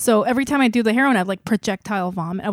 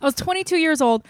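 amused, higher-pitched, laughing delivery; 7 semitones higher than usual. Real, not acted. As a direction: laugh through the words. Laughs while telling her age.

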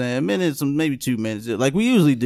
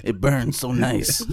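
tight throat after a sip; "it burns so nice" strained after a sip; strained from drink; slower than usual. Real, not acted. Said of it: "sipping drink".

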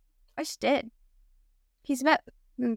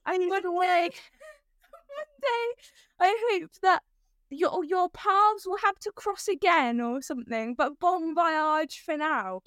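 laughing through a quote; 5 semitones higher, slower than usual. Retold or imitated. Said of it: "something along the lines of".

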